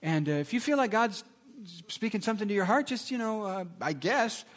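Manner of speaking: a pastor trailing off unsure. Retold or imitated. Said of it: "that pastor says".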